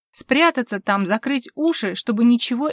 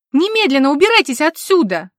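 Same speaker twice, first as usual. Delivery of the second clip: higher, louder shout to get out; furious order; 6 semitones higher, 10 dB louder than usual. A narrator's reading. Vivien ordering intruders out, furious shout. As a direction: throw them out of the house.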